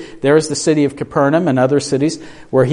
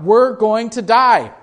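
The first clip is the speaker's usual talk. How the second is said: mild mock cry; 5 semitones higher, slower than usual. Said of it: "were crying out".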